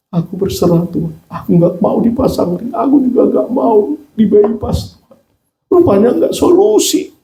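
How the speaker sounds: high, strained-pitch pleading prayer; retold distressed plea. Heart patient begging God to spare him surgery, pleading. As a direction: plead upward, pitch climbing as you go.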